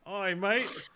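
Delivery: a lightly done Australian "Oi, mate!" with a falling end; Australian accent. Pretend. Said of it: "I tried to do Australian".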